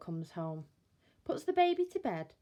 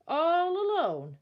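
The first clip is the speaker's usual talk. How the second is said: pitying sigh; 8 semitones higher, 9 dB louder, slower than usual. Acted. Bill pities the crying baby.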